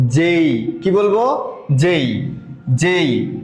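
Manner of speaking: "জেই" with the gliding ay ending; letter J as jay. Shown as a demonstration. Teacher drilling the class on the new "জেই". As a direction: say "জেই", not the old "জে". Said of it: "এটা আজকে থেকে কি বলবো".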